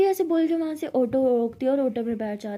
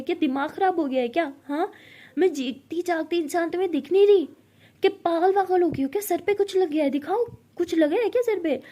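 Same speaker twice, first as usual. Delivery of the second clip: louder, irritated scolding; angry; 2 semitones higher, 3 dB louder than usual. Acted. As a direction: snap at her for being silly. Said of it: "गुस्से से बोलती है". (गुस्से में बोलना)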